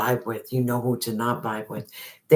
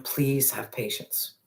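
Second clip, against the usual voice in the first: soft plea; 7 dB quieter, slower than usual. Pretend. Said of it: "The divine source is saying right now".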